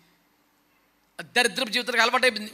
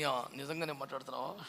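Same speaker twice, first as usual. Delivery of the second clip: doubtful hushed question; 8 semitones lower, 10 dB quieter than usual. Retold or imitated. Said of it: "అని".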